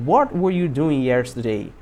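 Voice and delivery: slow, spaced-out question falling at the end; slow model sentence. Shown as a demonstration. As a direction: say it slowly for learners to repeat. Teacher models slowly, then faster. (pergunta modelo, devagar e pausada)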